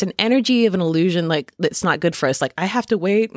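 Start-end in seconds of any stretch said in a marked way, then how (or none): 2.6-3.3 lightly voiced petulant child, a bit higher; a mild mock whine, like an impatient kid. Speaker mocking impatience for divine timing, mildly petulant child. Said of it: "you know, petulant child energy".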